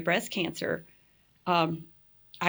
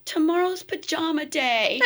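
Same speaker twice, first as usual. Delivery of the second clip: laughing reply; 9 semitones higher, 3 dB louder than usual. Retold or imitated. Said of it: "I go".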